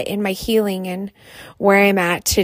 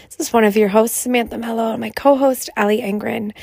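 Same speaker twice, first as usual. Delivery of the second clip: raspy voice. Real, not acted. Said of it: "I excuse my raspy voice".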